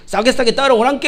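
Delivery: lightly imitated Jeolla shepherd's call; Jeolla dialect. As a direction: hurry the sheep along in a Jeolla accent. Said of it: "전라도 목자가 와가지고". (살짝 흉내 낸 전라도 사투리)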